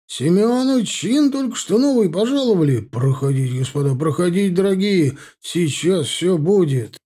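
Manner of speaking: loud, high excited announcement; overjoyed. A narrator's reading. Proud father inviting officers inside to celebrate, overjoyed. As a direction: usher them in with booming delight. Overjoyed host calls out, ushers guests.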